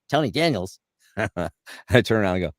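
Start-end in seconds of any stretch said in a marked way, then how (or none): 0.1-0.8 high-pitched, astonished recognition; Tom Kenny. Retold or imitated. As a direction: imitate a cartoon actor recognizing a colleague. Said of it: "And I hear".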